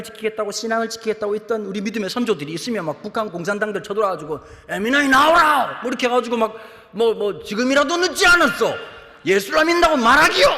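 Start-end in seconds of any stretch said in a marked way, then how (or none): 4.7-5.8 slow, louder, higher barked North Korean order; mock communist soldier. Communist soldier yelling at believers. 7.4-10.5 louder, higher North Korean demand; mock soldier threat. Soldier demanding denial of faith.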